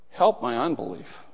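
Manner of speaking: high, soft plea; a small, heartfelt cry for help; soft, lifted prayer; tender plea. Acted. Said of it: "Now there is a sweet prayer".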